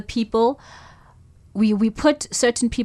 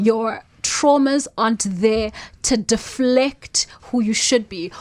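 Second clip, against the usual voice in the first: whispering. Real, not acted. Soft advice to her younger self.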